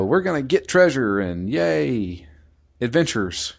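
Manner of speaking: a hint of a jolly space pirate; happy-go-lucky pirate. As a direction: toss it off like a carefree pirate dreaming of loot. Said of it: "the happy-go-lucky, you know, swash-, swashbuckler".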